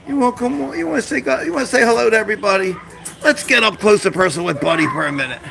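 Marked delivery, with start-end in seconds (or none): 0.1-2.8 coaxing the dog. Real, not acted.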